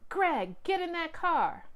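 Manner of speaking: a father barking at his son to get in; yell. A narrator's reading. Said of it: "Greg's dad yelled".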